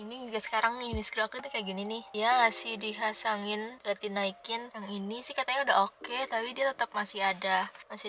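talking while showing braces; finger pulling lip corner. Real, not acted. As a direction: mouth stretched by finger. Seen 0: Finger hooks the mouth corner back to show braces throughout.

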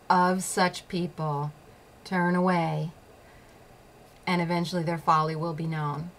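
each word slow and weighed, to sink in; slow deliberate recital. Shown as a demonstration. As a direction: recite it slowly like a motto you hold onto. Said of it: "Did I say it only ten million times to help it sink in?".

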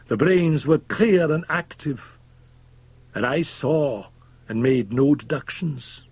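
an embittered man holding forth, drawn out and high; impassioned Fettes. A narrator's reading. Fettes protesting he is no good Christian, slow and emphatic.

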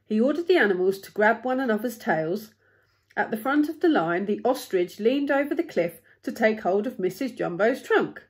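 animated read-aloud, lifting key words; expressive storybook narrator; story narration. A narrator's reading. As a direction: read a picture book with building urgency.

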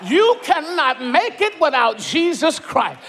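rising preacher shout, fast; building into a shout; starting to shout. Real, not acted. Preacher warns the church, then shouts. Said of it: "I'm about to shout myself a bit".

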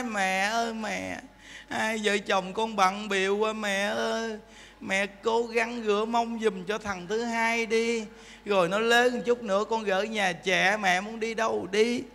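soft, slow pleading son; pleading child. Retold or imitated. Son softly begging his mother to babysit, pleading. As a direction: coax mother softly, slightly whiny. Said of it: "Nó nài nỉ mình ra, nói".

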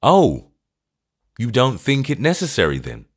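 emphatic, mildly incredulous; with emphasis. A narrator's reading. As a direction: lean hard on each word, challenging. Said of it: "with emphasis".

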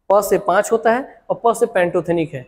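slow, each प leaned on; slow stressed mnemonic. Shown as a demonstration. Teacher repeating the memory trick slowly to the class. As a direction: spell out "प से पाँच" slowly, stressing प. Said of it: "ऐसे याद रखा था मैं".

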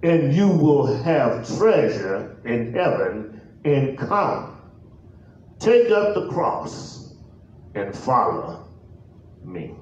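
measured, deliberate pulpit reading; solemn, stretched-out Bible reading; scripture reading. Real, not acted. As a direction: read the verse out with long pauses between phrases. Reads scripture aloud.

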